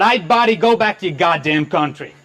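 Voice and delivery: lightly voiced southern US heckler; attempted southern accent. Indian comic imitating a Dodge Ram driver yelling abuse, attempted southern accent. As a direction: have a rough go at a southern accent. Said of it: "that's me doing a southern accent".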